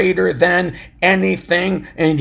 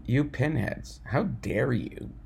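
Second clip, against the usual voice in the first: mock ridicule. David scolding his six hundred men, mildly hammed. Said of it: "begin to ridicule them and saying".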